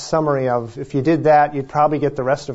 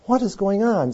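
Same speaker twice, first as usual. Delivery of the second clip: exasperated; 7 semitones higher than usual. Retold or imitated. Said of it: "And I'm like".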